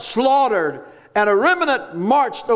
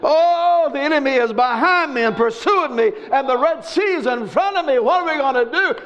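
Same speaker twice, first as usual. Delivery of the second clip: mock whining. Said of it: "they start whining and crying".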